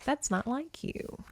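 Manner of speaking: mock tender confession. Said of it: "He's like".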